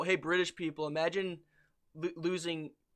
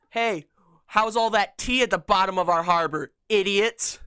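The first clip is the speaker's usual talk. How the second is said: loud, jeering taunt at the British; mock them across the ocean; 3 semitones higher, 11 dB louder than usual. American jeering at British people, loud taunt.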